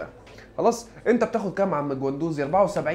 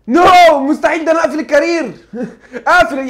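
loud, high no through laughter; laughing refusal; 8 semitones higher, 8 dB louder than usual. Real, not acted. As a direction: laugh while flatly refusing. (رفض عالي وسط الضحك)

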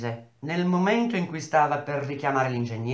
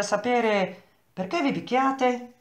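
higher, slow, paternal sternness; stern demand; 9 semitones higher, slower than usual. A narrator's reading. Engineer presses the workers about the fight, stern. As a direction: press the question slowly from above. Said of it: "tono brusco, perentorio".

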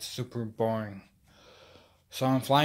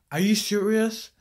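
much higher, louder outrage; indignant disbelief; 9 semitones higher, 6 dB louder than usual. Acted. Teen protesting to mom, high-pitched disbelief. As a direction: squeak in shocked protest.

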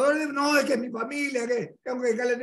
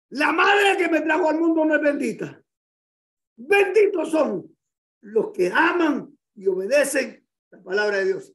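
preaching shout; 5 dB louder than usual. Acted. Preacher voicing Jesus, shouting.

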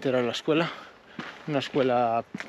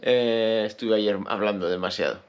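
tired, hoarse low voice; 3 semitones lower, slower than usual. Real, not acted. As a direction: talk with a strained hoarse throat. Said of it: "tengo la voz ronca".

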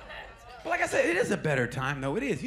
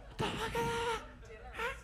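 mock shock; 11 dB quieter than usual. Reacting to driverless car.

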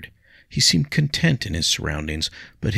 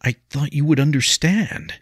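deflated; 10 semitones higher, 5 dB louder than usual. A narrator's reading. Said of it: "visibly deflated".

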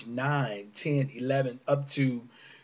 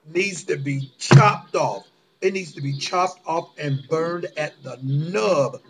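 furious; 3 dB louder than usual. Real, not acted. Furious rant about abusers.

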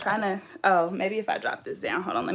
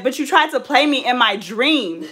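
louder, higher mock indignation; retold indignant attitude; 4 semitones higher, 5 dB louder than usual. Telling fiance off over a dream, full of attitude. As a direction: push back with sass, stretching the last line.

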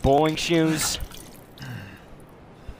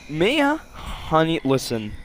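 soothing; slower than usual. Acted. Coaxing the witch Mia.

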